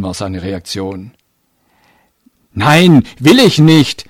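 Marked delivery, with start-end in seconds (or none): 2.5-4.0 put-on louder, higher boy's refusal; a bit louder. A narrator's reading. Boy refusing to go to the police, a bit louder. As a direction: raise the voice in stubborn refusal. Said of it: "sagte er etwas lauter".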